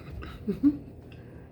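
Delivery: short high chuckle; soft little laugh to yourself. Real, not acted. Chuckles at own camera plan.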